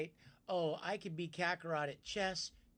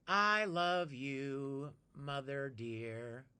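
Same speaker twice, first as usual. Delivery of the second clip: slow, tender and lower; 5 semitones lower, much slower than usual. Real, not acted. Streamer slowly greeting Mama-san tenderly. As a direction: say it slowly like to your mom.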